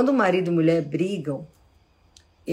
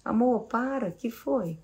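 softer, higher amor, para, que foi; calm your partner down kindly; loving tone to stop an argument; gentle tone; 3 semitones higher, 5 dB quieter than usual. Shown as a demonstration. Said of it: "Olha o tom da minha voz".

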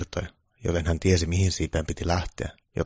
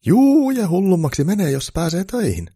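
very high, loud, stretched outburst; manic glee; 13 semitones higher, 9 dB louder than usual. A narrator's reading. Elf answering Santa who called him mad, high manic glee. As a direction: crow it out wildly.

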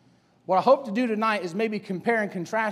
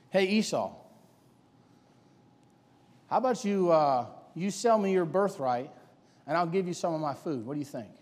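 soft, coaxing tempter's offer; sly quiet offer; 4 semitones lower, 6 dB quieter than usual. Acted. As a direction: lower and softer, sliding the deal across. Jacob tempting Esau, voiced softly.

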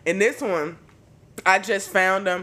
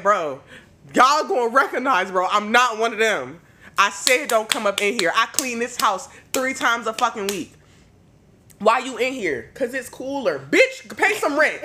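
loud, higher mock rant; mock scolding; 5 semitones higher, 4 dB louder than usual. Scolding the dead mouse to pay rent, loud and mock angry. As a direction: chew out the mouse like a tenant.

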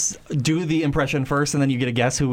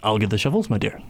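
lower, resigned mumble; defeated Ernest; 6 semitones lower, much faster than usual. Acted. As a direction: give in wearily. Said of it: "read for Ernest".

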